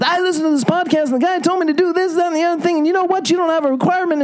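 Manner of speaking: a hint of an overeager partner lecturing; wrong approach. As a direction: rattle off the podcast advice like a hyped-up nag. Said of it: "But if you start with".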